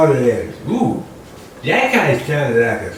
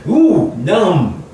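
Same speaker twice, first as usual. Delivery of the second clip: mock dizziness; 6 semitones higher, 6 dB louder than usual. Comic dizzy head after thinking.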